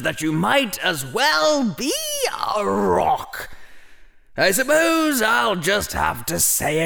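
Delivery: put-on high, exasperated old hat, shouting at "a rock". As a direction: throw up your hands as a fed-up hat.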